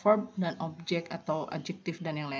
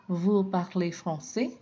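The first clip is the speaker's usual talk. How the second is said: slow, with the tune rising toward français; rising intonation; slower than usual. Shown as a demonstration. Teacher demonstrates an intonation question to the students. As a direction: ask it with an upward lift. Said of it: "dengan raising intonation".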